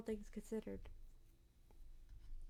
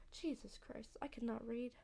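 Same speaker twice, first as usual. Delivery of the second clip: unvoiced breathy aside; whispered aside; 6 dB quieter than usual. Real, not acted. Misreads the script, whispers aside.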